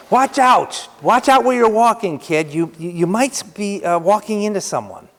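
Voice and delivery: lightly voiced dad warning his son; mock warning to a kid. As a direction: call out a warning to a toddler. Parent warning child in story.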